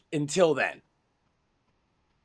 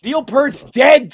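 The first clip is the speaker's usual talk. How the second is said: slow emphatic; 6 semitones higher, 7 dB louder, slower than usual. Real, not acted. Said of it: "mock grave announcement".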